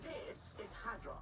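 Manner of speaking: robot voice. Acted. Robotic game announcement voice.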